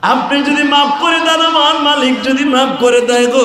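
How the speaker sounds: melodic lament imitating a weeping companion; tearful plea. (সুর করে কান্নার মতো মিনতি)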